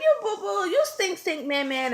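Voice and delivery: put-on high sing-out teasing of a toddler; high-pitched, starting at the top and easing down; talking to baby. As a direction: reenact chiding a stinky baby. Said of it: "And I'm talking to him".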